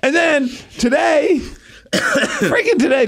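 high, slow, drawn-out complaint; exasperated groan. Real, not acted. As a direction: whine it out, fed up. Exasperated about ongoing pain.

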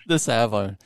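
American copying Australian "arvo"; learner's attempt at Australian accent; imitated Australian accent. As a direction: echo "arvo" in a tentative Aussie accent. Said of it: "I'll see if I can do it".

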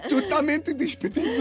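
slow, breaking into laughter; laughing. Pretend. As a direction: say it while cracking up. Repeated while laughing.

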